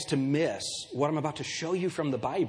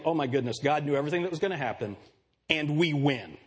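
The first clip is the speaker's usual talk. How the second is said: reassured; 2 semitones lower than usual. Acted. Preacher modelling what the congregation should leave saying, reassured. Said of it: "I want you to leave today saying".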